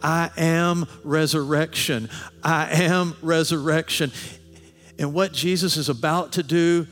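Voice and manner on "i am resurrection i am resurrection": slow, weighty declaration; solemn proclamation. Acted. Preacher speaking as Jesus to Martha, slow solemn proclamation. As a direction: declare it deliberately, word by word.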